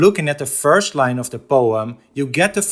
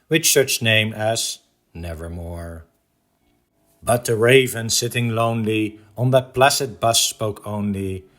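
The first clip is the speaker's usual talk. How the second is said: measured, rhythmic verse reading; solemn cadence with a hushed final word; poem recitation; 3 semitones lower than usual. Acted. Recites The Raven stanza by stanza.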